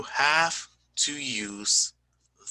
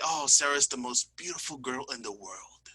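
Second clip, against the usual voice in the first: exaggerated gushing; 5 dB quieter than usual. Shown as a demonstration. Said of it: "if you want to be exaggerated".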